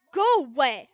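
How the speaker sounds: loud, sharp go away; crying girl yelling from a stall. Acted. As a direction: push her away with it. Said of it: "she quoted".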